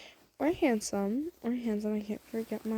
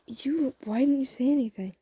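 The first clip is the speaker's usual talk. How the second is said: pitched-up, mildly exasperated disbelief; incredulous; 4 semitones higher, 4 dB louder than usual. Acted. Crush learns listener likes him too, incredulous. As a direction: blurt it out, amazed. Acted disbelief at mutual feelings.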